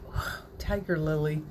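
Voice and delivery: awed whisper; whispered thought. Retold or imitated. Recalling seeing the tiger lily, whispered awe. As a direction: breathe it out in wonder. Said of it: "I thought".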